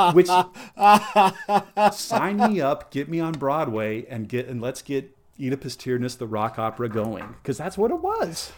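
gushing about putting the play on Broadway, thrilled; excited. Real, not acted. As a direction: sell the dream of a Broadway rock opera. Gushing about Broadway rock opera.

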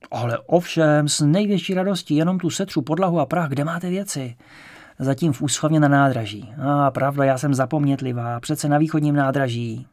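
a hint of a fussy, delighted landlady; elderly landlady. Old landlady agreeing he can move in today, mildly eager.

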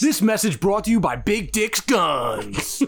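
lightly hammed-up sponsor announcer; mock ad read. Cohost cutting in with a fake gun-shop ad, mock announcer. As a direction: read it like a joke sponsor spot.

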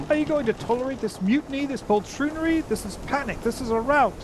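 very high, urgent mouse voice; a tiny knight calling his king; outraged Reepicheep. Acted. Reepicheep appeals to the king, high and outraged.

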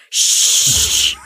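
loud whispered shush; librarian shushing whisper. Acted. Shushed after waving in parlor.

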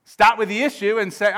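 normal talking voice

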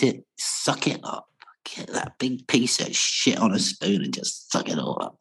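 whispered, breathy aside; conspiratorial whisper. Real, not acted. Telling the host to just swallow Brexit, whispered joke. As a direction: whisper it like a grim private joke. Joking about accepting Brexit.

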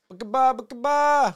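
put-on squeaky high baby voice repeating it; high toddler babble. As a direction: chirp "Bookaba, bookaba" high like a toddler. And he'd be like.

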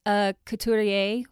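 light French accent on "a couturier". Shown as a demonstration. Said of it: "my best attempt at a French accent".

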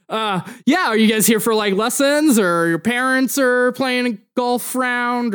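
zoinked club staffer, friendly. Acted. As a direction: ask the kids casually, like a slacker employee. Game master plays club staffer.

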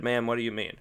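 soft, baffled and restrained; puzzled quiet reply. Retold or imitated. Man replying to the rude clerk, softly puzzled. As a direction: ask it quietly, taken aback.

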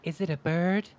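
big, high, loud comic-book announcer; Superman announcer. Acted. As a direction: hype it like the old Superman intro. Superman jingle intro to segment.

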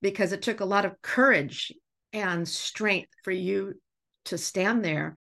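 fighting back tears while praising him; getting emotional. Real, not acted. Teacher choking up praising a student for his courage. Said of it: "I'm gonna get emotional".

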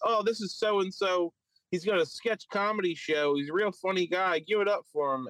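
hint of an emcee introducing a comic; show host intro. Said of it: "He's introduced as".

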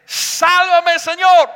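loud, high cry for rescue; desperate shout. Acted. Peter crying to Jesus as he sinks, desperate shout. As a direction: yell it out like a drowning man. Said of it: "él grita de esta manera".

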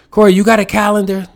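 high, loud mock grandma asking; loud, high old-lady voice teasing her grandson; grandma's voice. Grandma voiced while retelling.

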